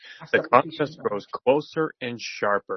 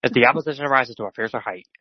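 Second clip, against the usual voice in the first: chipmunk voice; 2 semitones higher, 4 dB louder, faster than usual. Real, not acted. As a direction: voice racing at double speed like a chipmunk. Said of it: "sounded like a chipmunk".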